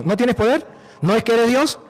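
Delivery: acted incredulous challenge; challenging God. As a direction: question the Lord in mock disbelief. Acting a doubter challenging God.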